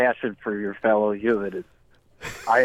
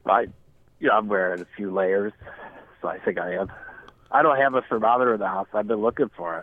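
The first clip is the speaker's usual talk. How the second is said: nose pinched shut; pinching nose; 3 semitones lower than usual. Acted. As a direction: talk with a clothespin on your nose. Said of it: "you have that clothespin on your nose right now".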